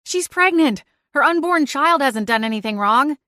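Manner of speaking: high, pleading cry; urgent protest. Acted. Pleading to stop attack.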